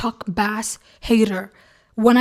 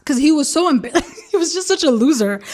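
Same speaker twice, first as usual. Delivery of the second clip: higher-pitched, breaking into laughter; laughing mockery; 4 semitones higher than usual. Real, not acted. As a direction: talk through a real laugh. Laughing while mocking Chuck Bass.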